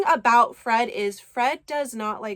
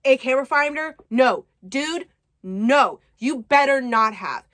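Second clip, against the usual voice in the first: rapid-fire alarm; 2 semitones higher, 5 dB louder than usual. Retold or imitated. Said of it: "rapid firing these messages".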